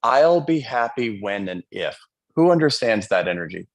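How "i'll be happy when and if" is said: egoic voice. Retold or imitated. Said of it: "egoic voice that goes on".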